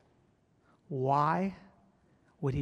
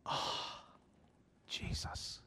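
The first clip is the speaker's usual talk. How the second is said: half-awake whispered prayer; a soft morning whisper to Jesus; waking whisper; 12 dB quieter, much slower than usual. Retold or imitated. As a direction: breathe it out sleepily. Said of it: "wake up in the morning and go".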